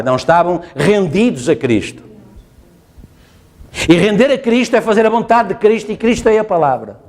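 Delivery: normal talking voice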